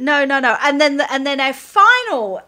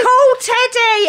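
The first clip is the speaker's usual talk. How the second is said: mock frantic call; 10 semitones higher, 4 dB louder, slower than usual. Retold frantic instruction.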